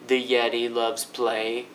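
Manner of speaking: slow, level and low up to "play"; held-low pitch. Shown as a demonstration. Teacher breaks down the question, staying low. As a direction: keep "The Yeti loves play" low, no rise yet. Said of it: "I actually stay really low through".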